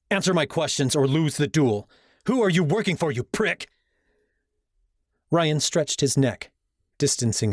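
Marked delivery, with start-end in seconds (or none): 0.1-3.7 threatening. A narrator's reading. Hero threatens rival at scythe-point.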